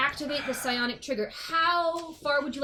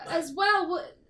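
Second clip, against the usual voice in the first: flustered denial; 5 semitones higher than usual. Acted. NPC flusters under accusation.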